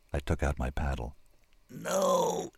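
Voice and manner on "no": groaned no. A narrator's reading. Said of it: "he groaned".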